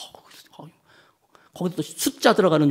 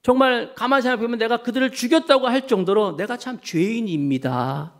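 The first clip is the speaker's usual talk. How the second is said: retold confession; 7 semitones higher than usual. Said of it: "그렇게 말씀하고 있더라고요".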